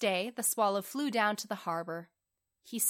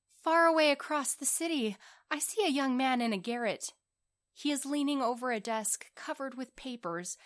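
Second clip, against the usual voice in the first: slightly raised storybook prince voice; lightly voiced prince, earnest; 3 semitones higher than usual. Prince tells swallow of the cold writer, earnest. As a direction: describe it earnestly in a lightly lifted voice.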